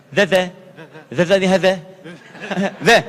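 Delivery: "the" as a voiced th with the tongue between the teeth, loud; loud drilled "the"; tongue bitten "the". Shown as a demonstration. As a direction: bite the tongue and say "the". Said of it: "Sambil digigit".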